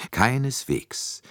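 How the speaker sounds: high, drawn-out polite assurance; eager assurance. A narrator's reading. Poirot assures Monsieur Bouc he has no objection, eagerly polite. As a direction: reassure with slow, courteous emphasis. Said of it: "beeilte sich Poirot zu versichern".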